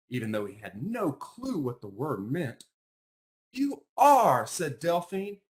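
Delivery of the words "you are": high and loud insistence; emphatic retort. Acted. Delphine insisting to Isaac, loud and high. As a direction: shoot it straight back, loud and high.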